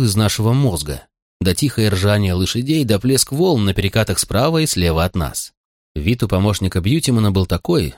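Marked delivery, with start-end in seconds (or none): none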